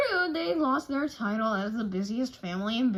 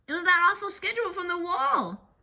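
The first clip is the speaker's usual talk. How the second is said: spooky reveal; 8 semitones higher, 5 dB louder, faster than usual. A narrator's reading. Nightmare reveal in the story.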